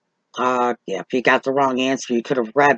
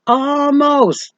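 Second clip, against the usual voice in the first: choking up for real while recalling the failed test; close to tears; 12 semitones higher, 4 dB louder than usual. Real, not acted. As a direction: voice cracking up high on the word. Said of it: "I feel like crying right now just talking about it".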